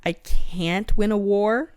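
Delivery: mock Xaden. Podcaster playfully voicing the hero's love vow, mock swoon. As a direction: ham up the devoted book boyfriend.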